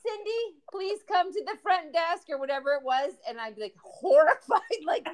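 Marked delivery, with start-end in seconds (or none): 0.1-2.2 store intercom page, drawn out; flat echoey PA page. Retold or imitated. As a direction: call it like a store loudspeaker. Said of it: "we would hear over the intercom".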